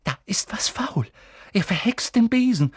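hushed whisper rising to alarm; whisper, then blurt it. Acted. Hermine whispering to Ron about Snape, alarmed.

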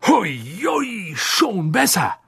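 out of breath, gasping words; panting. A narrator's reading. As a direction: puff it out after a fall. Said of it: "keuchte Mister Weasley".

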